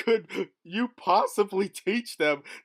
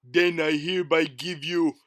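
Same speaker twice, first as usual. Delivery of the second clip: booming showman announcer; race announcer; 5 dB louder than usual. Acted. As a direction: announce it to the crowd.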